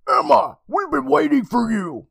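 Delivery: high, sweet mother voice; sugary sweet mom calling; mom's voice. Acted. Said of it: "Miss Toll called to her".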